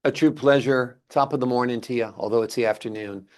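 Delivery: lightly put-on stage Irish accent; a hint of leprechaun-mascot Irish, playfully done. Shown as a demonstration. Host thanking his Irish guest, mock Irish accent. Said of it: "when I do my Irish accent".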